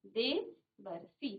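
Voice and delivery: देवर्षि stretched out, syllable by syllable; slow dictation. Shown as a demonstration. Teacher dictating the answer slowly. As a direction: draw out देवर्षि so they can write it. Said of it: "आपने लिख लिया".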